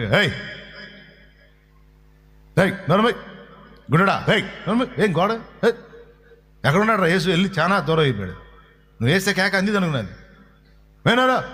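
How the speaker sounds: rough, dismissive crowd telling him to shut up; harsh scolding. Shown as a demonstration. Crowd rudely silencing the blind beggar, harsh scolding. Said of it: "ఇందా నేను చెప్పా".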